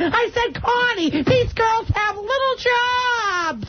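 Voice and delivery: lightly voiced nagging Massachusetts cousin, slowing on complaints; a hint of an indignant aunt; cousin Gogo. Cousin Gogo complaining about wedding showers, lightly voiced. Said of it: "It's my cousin Gogo".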